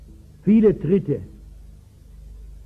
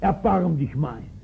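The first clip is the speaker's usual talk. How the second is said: correcting shout. Retold or imitated. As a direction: cut them off with Nein, then beg. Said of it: "da korrigiert er".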